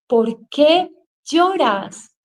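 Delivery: stretched-out rebuke to herself; self-scolding. Retold or imitated. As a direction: scold yourself slowly, word by word. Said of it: "me regañaba a mí misma diciéndome".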